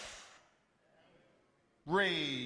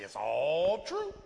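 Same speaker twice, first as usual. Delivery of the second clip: calm admission; 3 semitones lower than usual. Retold or imitated. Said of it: "I would just say".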